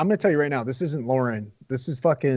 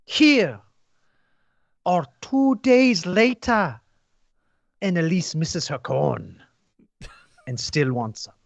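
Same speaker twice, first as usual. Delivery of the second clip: higher, slow put-on reviewer voice; fake reviewer voice; 5 semitones higher, much slower than usual. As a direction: read it in a prim put-on voice. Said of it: "so you have to do a fake voice?".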